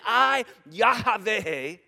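slow, spat-out I, Yahweh with hard consonants; forceful declaration. Shown as a demonstration. Preacher spitting on the front row, very slow and forceful. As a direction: drive the name out so hard it sprays. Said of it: "sorry for all the spit in the front row".

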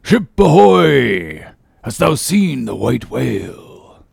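hailing cry. Acted. Ahab hails the English ship through his trumpet, loud and drawn out. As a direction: call out to the far ship, long and loud. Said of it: "So cried Ahab".

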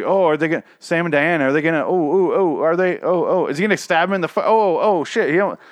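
high, loud breathless oh-oh fan gasping; excited fan. Pretend. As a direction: squeal along like a hooked viewer watching the scene. Acting excited viewer watching the show.

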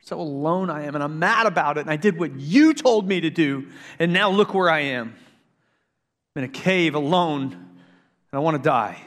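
honest lament. Retold or imitated. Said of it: "he says".

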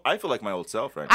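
stoned and relaxed; stoner. Real, not acted. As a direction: talk like you're high. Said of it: "I'm pretty high right now".

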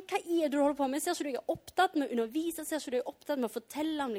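quick, mildly exasperated protest; imagine being interrupted mid-teaching, rushing the complaint; frustrated. Pretend. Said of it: "hadde jeg blitt litt sånn frustrert".

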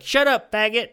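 high, loud mock retort; imitated angry kid. Kid gamer answering an insult, imitated high yell. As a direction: mimic a riled-up young gamer.

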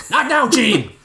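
hurried dad brushing his son off; shouted back. Acted. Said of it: "Bob shouted back in reply".

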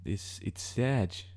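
slow Kiwi-accented "Sarge" with the r dropped, like "Sahge"; Kiwi accent imitation. Shown as a demonstration. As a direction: drawl "Sarge" slowly in a light Kiwi accent. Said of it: "in that accent".

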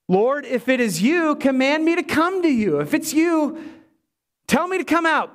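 lightly voiced eager disciple; eager Peter. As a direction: ask like Peter begging to step out. Peter voiced pleading to Jesus.

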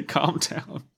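urging him to calm down; an AI begging her charge to settle; pleading. A narrator's reading. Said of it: "she pleaded".

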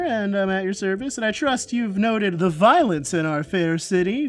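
lightly voiced chronicler, grandly self-important; Volo. Celebrity wizard shaking a new acquaintance's hand, mildly grandiose. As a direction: present yourself with a storyteller's flourish. Game master plays Volo.

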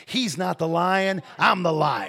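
firm words building to a shout; rising-force divine proclamation; emphatic declaration. Acted. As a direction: preach it with force, loudest at the end. God's correction, acted by preacher.

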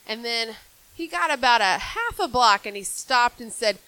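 usual speaking voice

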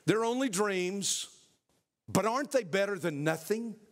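a touch of a sly pleading lizard; mocking, pleading lizard. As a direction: beg and taunt at the same time. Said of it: "begins to mock and plead".

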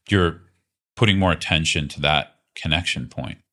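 calm, unhurried guidance with long pauses; guided meditation. Real, not acted. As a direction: gently lead them into body awareness, leaving space between phrases. Leads a guided body awareness practice.

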